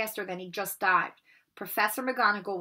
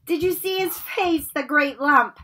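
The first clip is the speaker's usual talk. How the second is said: high, loud jeering schoolboy voice; mocking sneer; 6 semitones higher, 8 dB louder than usual. Malfoy jeers at Neville with the Slytherins, high mocking glee. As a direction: gloat over the hurt boy. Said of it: "Malfoy burst into laughter".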